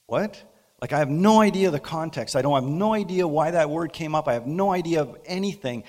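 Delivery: baffled. Retold or imitated. Baffled reaction, much louder.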